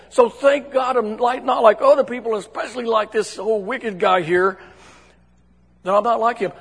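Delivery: a hint of looking down on someone; boastful Pharisee. Pharisee thanks God about the tax collector, mildly boastful. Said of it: "And then he says".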